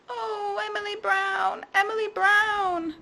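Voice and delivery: high, sickly creature voice; poorly creature. Acted. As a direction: sound poorly and pitiful. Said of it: "coughed the thing".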